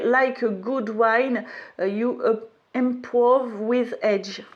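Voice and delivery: halting English with a French accent. Real, not acted. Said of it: "avec mon super accent".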